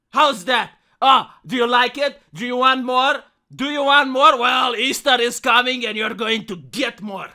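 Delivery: taunting, theatrical domination; hammy stage actor. Acted. Gloating villain rant.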